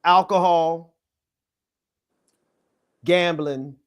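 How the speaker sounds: measured preacher cadence with long pauses. Real, not acted. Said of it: "you sound like a nineteen twenties preacher".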